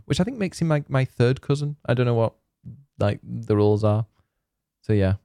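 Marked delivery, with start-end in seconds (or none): none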